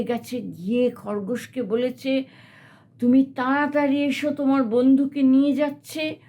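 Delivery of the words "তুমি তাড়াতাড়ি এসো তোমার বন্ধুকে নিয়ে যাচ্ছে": fast, louder, urgent plea. Acted. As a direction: hurry them along in alarm. Monkey urgently calls hare.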